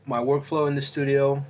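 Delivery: talking with a mouth full; words round a bite of banana. Real, not acted. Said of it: "with my mouth full".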